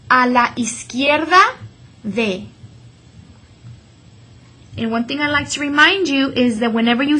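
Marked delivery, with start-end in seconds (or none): 0.1-2.5 "izquierda" as iskierda, u silent; model Spanish. Shown as a demonstration. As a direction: say "a la izquierda de" without the u. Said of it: "One more time".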